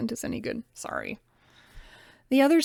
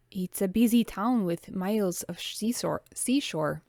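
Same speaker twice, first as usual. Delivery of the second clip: put-on French accent. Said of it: "get my French accent on".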